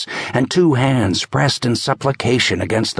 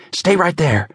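a raised, stern cop order; firm command; 8 semitones higher than usual. Acted. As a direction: hold her in place. Casey ordering the woman.

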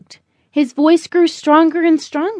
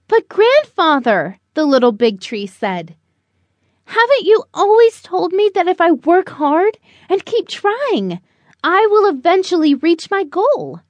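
put-on higher, eager young tree voice; 4 semitones higher than usual. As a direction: play the hopeful young tree. Little tree speaking to grandfather.

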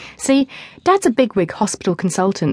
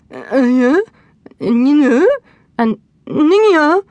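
put-on high, dopey alien girl babble; alien speak; 8 semitones higher, 5 dB louder, slower than usual. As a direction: stammer like a starstruck alien. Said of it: "in alien speak".

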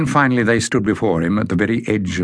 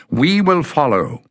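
calling; 8 semitones higher than usual. A narrator's reading. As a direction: shout the promise after her. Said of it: "Bada called".

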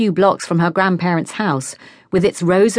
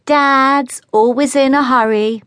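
teasing mimicry; 7 semitones higher, 3 dB louder than usual. Annie mimics back teasingly.

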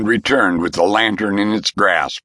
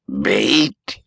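lightly voiced old spirit, curious; a hint of the old man asking; old ghost asking. A narrator's reading. Ghost turns to Roan, a hint of a curious old voice. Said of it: "it asked".

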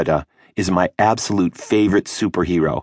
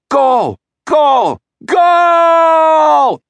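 building, much higher, louder goal call; goal shout; 6 dB louder, much slower than usual. Pretend. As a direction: roar the goal, longer each time. Commentator calling the goal.

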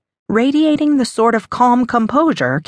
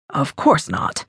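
a lower, softer fatherly reassurance; calm him down gently as papa; 5 semitones lower, 3 dB quieter than usual. A narrator's reading. Father soothing his daughter, a touch lower and softer.

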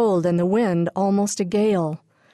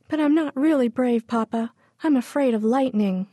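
much higher small scared voice; timid confession; 6 semitones higher than usual. A narrator's reading. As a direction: own up to being afraid. Amelia admits fear to papa.

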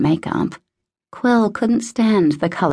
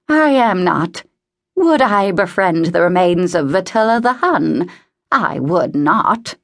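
lightly voiced old lady, emphatic and affronted; indignant old woman. Voices indignant old Mrs Pembroke.

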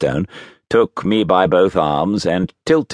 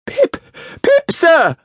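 put-on louder, frightened high child voice; speaking up when ordered; 4 dB louder than usual. A narrator's reading. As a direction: squeal it out more forcefully. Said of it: "Give it mouth!".

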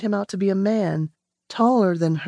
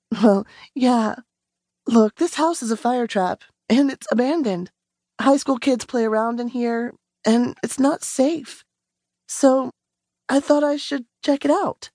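put-on a higher, tense young woman explaining herself; Rowan, nervous; 4 semitones higher than usual. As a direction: justify yourself, a little on edge. Rowan voiced above the narrator.

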